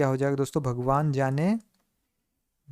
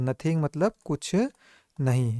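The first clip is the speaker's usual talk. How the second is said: slow repeat; slower than usual. Shown as a demonstration. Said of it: "repeat करते चले".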